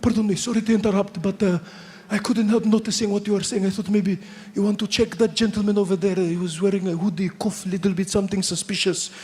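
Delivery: lightly voiced polite Pakistani accent; a hint of a courteous Pakistani man tattling. Pakistani passenger politely pointing out the comedian to the hostess, light Pakistani accent. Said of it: "he goes".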